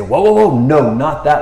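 loud whoa, cut them off; a firm mock stop; mock alarm. Jesus halting the disciples, loud mock alarm.

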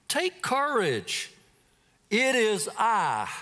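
high, slow reassuring call; slow, lifted reassurance. Acted. Jesus calling to his frightened disciples, slow and reassuring. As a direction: reassure them slowly. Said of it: "Jesus immediately said to them".

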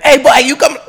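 high, loud hollering with a laugh; mock furious captain. Friend mimicking the furious captain of the boat, loud mock outrage. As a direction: imitate an angry boat captain, cracking up. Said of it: "the captain of the boat's furious, cussing and stuff".

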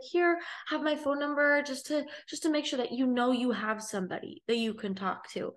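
imitating the girl offering her number; caring stranger girl. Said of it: "And she's like".

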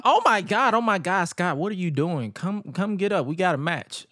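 mild mock yell; imitated yelling. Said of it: "Francine is yelling".

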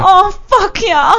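slow, high, loud Minnesota mock moan; drawn-out fake climax in Minnesota accent; Minnesota coming. Co-host echoing host in the sound bite gag, Minnesota accent. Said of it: "Minnesota coming".

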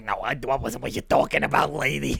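mock New Jersey accent, brushing her off. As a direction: put on a New Jersey wise-guy accent. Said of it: "let's retire these accents".

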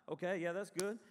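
mild, easygoing nod of approval; low-key approval. Retold or imitated. Preacher acting out his own slow start to worship, low-key. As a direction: say it as a slow worshiper just warming up. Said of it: "I'm kind of a slow worshiper".

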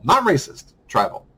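"Not racist" jumps up, "tribal" lands flat and firm; stress on the correction. Real, not acted. Correcting a word.

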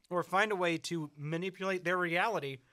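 talking with a mouthful of food; mouth full. Real, not acted. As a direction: chew while you speak. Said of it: "my mouth is so full".

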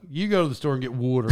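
imitated Pittsburgh "water"; Pittsburgh pronunciation. Host mimicking a Pittsburgh local giving directions to the store, regional "water". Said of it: "a lot of people say it in Pittsburgh".

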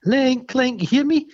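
put-on high, slow talking to a naughty child; sing-song telling off a pet chimp; mock scolding. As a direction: scold him like a little kid, high. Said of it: "she does a bit of, right, reverse psychology".

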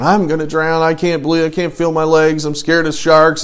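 hammed-up tearful complaint; mock crying. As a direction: whine it like a panicking swimmer. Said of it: "I'm out there just crying".

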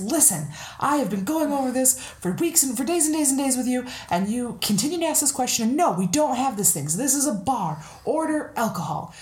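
worked-up joke-telling rant; exasperated bartender. Acted. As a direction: rant as a bartender at the end of his patience. Joke bartender at end of patience.

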